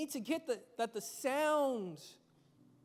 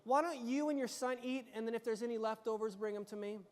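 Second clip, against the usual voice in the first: softer, gentle apology; imagined kind prophet, softer; nicer version; 3 semitones lower, 3 dB quieter than usual. Retold or imitated. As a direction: ease it down kindly and softer. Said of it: "wouldn't it be nicer if he said".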